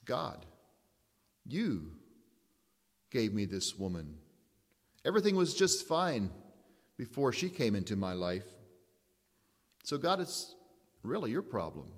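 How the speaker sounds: mildly petulant Adam, pleading; an excuse tossed back at God, understated; a hint of whining Adam; Adam blaming God. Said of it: "It was like he was saying".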